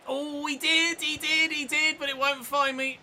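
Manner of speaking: high, eager rising pitch; hoping the pass gets through; excited. Real, not acted. Gamer watching the pass come his way, high and excited. Through ball nearly reaches him.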